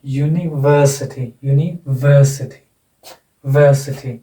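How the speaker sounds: slow "यूनिवर्सिटी" with stress on "वर"; stress demonstration. Shown as a demonstration. Teacher showing stress before the suffix, slow "यूनिवर्सिटी" with a heavy "वर". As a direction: draw out and lean on the third syllable of "यूनिवर्सिटी". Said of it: "इससे पहले वाला syllable".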